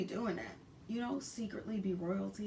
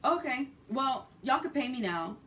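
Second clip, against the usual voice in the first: imitating driver; 5 semitones higher, 5 dB louder than usual. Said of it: "And he's like".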